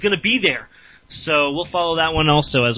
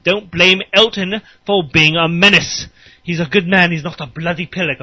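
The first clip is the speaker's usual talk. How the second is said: put-on British accent; 3 dB louder than usual. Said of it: "that's just me, making fun of British people".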